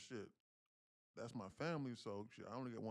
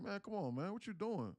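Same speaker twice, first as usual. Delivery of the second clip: retold scolding; 8 semitones higher than usual. Scolding mama.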